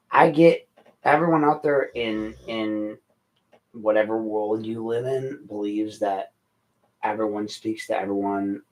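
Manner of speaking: usual speaking voice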